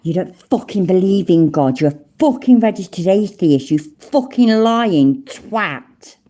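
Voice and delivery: indignant, angry outburst; properly angry. Real, not acted. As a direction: spit out the accusation, lingering on the closing insult. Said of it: "I'm proper angry now".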